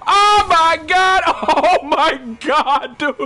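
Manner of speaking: very high, slow, drawn-out real yells; ecstatic screaming. Real, not acted. Player celebrating a clutch move to teammate, ecstatic shouting. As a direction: scream in amazement, easing gradually.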